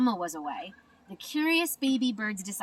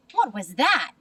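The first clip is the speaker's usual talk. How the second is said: cried out; 6 dB louder than usual. Acted. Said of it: "cried Flap".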